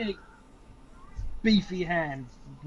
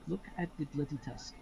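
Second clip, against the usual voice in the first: close quiet aside; 9 dB quieter than usual. Acted. GM leans close to ear.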